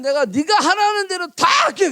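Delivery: put-on a pleading young master; servant's eager promise.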